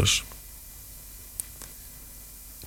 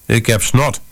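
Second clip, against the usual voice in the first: put-on child voice; 3 semitones higher than usual. Little daughter voiced.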